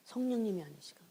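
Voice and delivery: a hushed whisper at the phrase end. Real, not acted. Preacher whispering the point to the congregation. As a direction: let it fall to a whisper.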